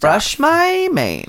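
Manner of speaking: high, slow diva donkey; demanding donkey. Pretend. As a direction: play a pampered diva. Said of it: "this donkey's gonna want a lot".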